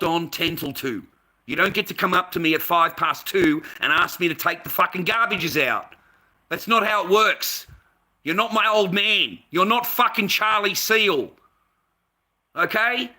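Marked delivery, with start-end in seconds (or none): 1.4-13.1 loud, high, furious rant; angry rant. Real, not acted. Venting about the old woman, loud and furious. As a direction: shout it out, fed up with her.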